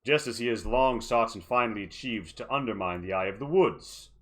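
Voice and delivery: smug, scheming villain voice; mustache twirling villain. Acted. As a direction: purr it with smug menace. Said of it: "Duraza twirls his mustache and says".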